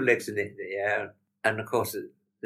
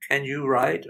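higher, louder questioning German lady; lightly voiced German woman asking; retold question, raised in pitch and volume; 6 semitones higher, 6 dB louder, slower than usual. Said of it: "there's a big German lady".

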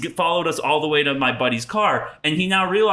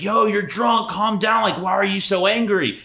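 imitated confronting brother; 6 semitones higher than usual. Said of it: "getting in her face".

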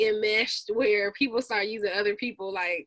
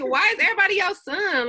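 high-pitched mock-confused question; retold bafflement; 9 semitones higher, 4 dB louder than usual. Newcomer puzzled by New York slang, retold in high bafflement. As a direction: replay your confusion, pitched well up.

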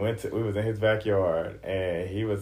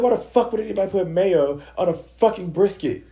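high, loud, incredulous demand; worked-up retold indignation; outraged disbelief; 9 semitones higher, 7 dB louder than usual. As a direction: hammer out the question in mock outrage. Outraged question over brisket retold.

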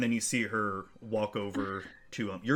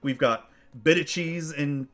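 higher, perky waitress reeling off a menu; a bright little server rattling off the specials; halfling waitress; 6 semitones higher, 3 dB louder than usual. Acted. GM voicing a halfling waitress reciting the menu, lightly higher. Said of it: "she introduces, like".

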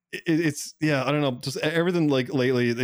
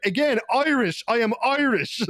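high, sing-song exasperation; mock exasperated retort; 12 semitones higher, slower than usual. A gamer mocking the soldier's outrage with high exasperation. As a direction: spell it out like to a child.

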